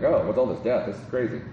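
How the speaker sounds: mildly indignant complaint, jumpy pitch; mock protest. Preacher voices a worker complaining about his pay, mock protest. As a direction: act out a baffled worker objecting. Imagined complainer reacting to death wages.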